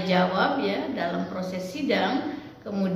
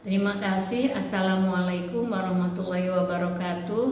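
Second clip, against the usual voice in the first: without smiling voice; 3 semitones lower than usual. Shown as a demonstration. Lecturer demos thesis defense opening to students, unsmiling. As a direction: read it dutifully with no smile in the voice. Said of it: "contohnya tidak menggunakan smiling voice".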